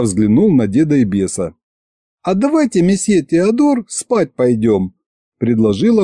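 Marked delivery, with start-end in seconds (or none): 2.2-4.9 drawn-out, high-pitched female character voice; languid young lady. Acted. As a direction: suggest it languidly. Narrator voices Masha's languid suggestion.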